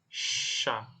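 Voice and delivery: "sha" with a whispered, voiceless sh and a short a; French chat. Shown as a demonstration. Teacher whispers "chat" to show the sh sound. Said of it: "cara bacanya".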